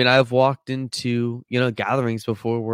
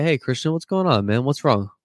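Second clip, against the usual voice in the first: concerned friend; 4 semitones higher than usual. Retold or imitated. Friends asking what's wrong.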